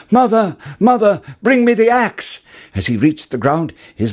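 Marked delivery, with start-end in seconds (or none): 0.1-2.4 high, loud urgent call. A narrator's reading. Jack calls mother from beanstalk, loud high call. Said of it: "called out".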